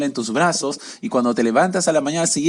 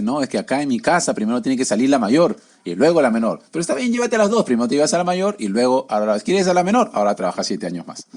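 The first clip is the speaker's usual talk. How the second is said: sly uncle. Acted. The uncle to Jacob, sly and mocking. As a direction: tease out the deal like a crafty trickster.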